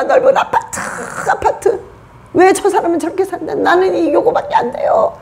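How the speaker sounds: half-laughing imitation of a greedy complaining prayer; a lightly mocking, teary-voiced plea; mock whiny prayer. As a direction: parody a believer begging for a bigger flat. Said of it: "그게 원통해서 흘리는 눈물".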